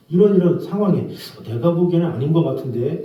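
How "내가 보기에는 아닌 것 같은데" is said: disagree gently, leaving room; tactful disagreement. Shown as a demonstration. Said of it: "싸우자는 거죠".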